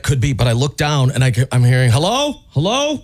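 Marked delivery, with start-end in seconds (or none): 1.9-3.0 operator calling hello. Retold or imitated. Retold 911 call, operator answering.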